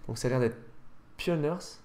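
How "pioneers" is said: bad English accent. Shown as a demonstration. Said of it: "mon accent anglais est nul à chier".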